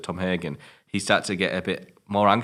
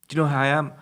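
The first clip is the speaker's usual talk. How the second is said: mock arrogant boss; 4 semitones higher than usual. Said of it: "the casino guy".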